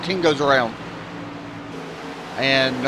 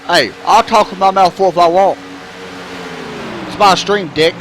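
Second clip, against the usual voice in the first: loud, playful defiance; joking indignant outburst; mock defiance; 4 semitones higher, 4 dB louder than usual. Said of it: "And I was joking".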